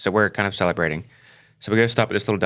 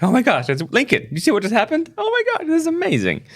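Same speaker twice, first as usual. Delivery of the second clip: high, loud, thrilled gushing; excited exclamation; 4 dB louder than usual. Retold or imitated. Parents gushing over their son's word for the waitress, thrilled and high. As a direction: shriek it out in sheer delight.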